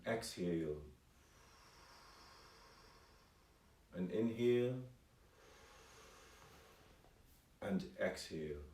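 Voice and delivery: gentle, softened meditation voice with long pauses; guided meditation. Real, not acted. Calligraphy teacher guiding online viewers to breathe, calm meditation voice. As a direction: guide them calmly, leaving space for each breath.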